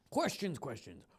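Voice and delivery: character voice attempt. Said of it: "it's hard to do the voice".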